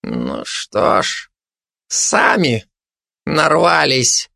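slow, grim resignation; gloomy. Acted. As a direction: sum it up sullenly, in heavy pieces. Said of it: "хмуро подытожил он". (хмуро, обречённо)

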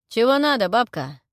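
rough, loud bandit bark; gruff thug. A narrator's reading. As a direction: snap at the old woman rudely. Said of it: "Грубо отозвался". (грубый окрик бандита)

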